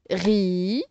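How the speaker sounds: "Rideau" split with a long pause; teacher sounding out "Rideau" in two beats; syllable by syllable. Shown as a demonstration. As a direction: hold a low "Ri", wait, then "deau". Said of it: "on sépare la syllabe".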